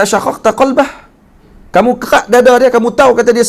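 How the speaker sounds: high, loud reproachful question; a hint of the Prophet's stern rebuke.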